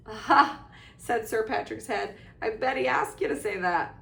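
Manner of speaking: loud knowing gotcha. Acted. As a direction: catch him out. Patrick catching Harry out.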